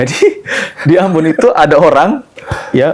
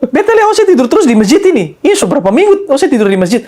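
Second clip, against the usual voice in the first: put-on high Ambon accent with a laugh, easing down; amused Ambon accent; 10 semitones higher than usual. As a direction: laugh at the mosque sleeper in Ambonese. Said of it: "Pakai logat Ambon kan".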